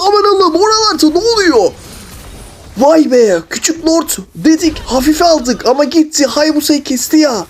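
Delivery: play-by-play caster, building to excited peaks; sportscaster commentary. Acted. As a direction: call the match like a TV sportscaster. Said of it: "spiker gibi konuşalım ya".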